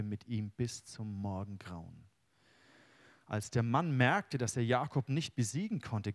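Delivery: solemn reading of the Jakob story; scripture reading. Acted. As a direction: read the passage with weight, unhurried. Reads Bible passage aloud.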